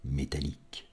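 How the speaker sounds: measured poetry reading with long pauses; spare, solemn recital, phrase by phrase; poem recitation. Acted. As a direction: let each fragment hang in silence, swelling then fading.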